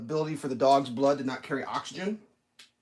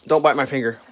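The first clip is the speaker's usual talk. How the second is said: "Don't bite my finger" said louder, sharp and quick; sharp warning; 8 dB louder than usual. Real, not acted. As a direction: warn the dog off firmly. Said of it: "how far my finger went into her mouth".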